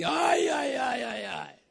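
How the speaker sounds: soft, despairing little moans; mild mock despair fading down; mock groan. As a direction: sigh it out like all your work is lost. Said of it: "E você ficava assim".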